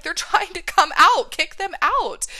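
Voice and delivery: high, loud, laughing punchline; joking. Real, not acted. Coach joking that tears should be kicked out, laughing loudly. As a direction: laugh through the joke, pitch and volume up. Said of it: "I always make a joke".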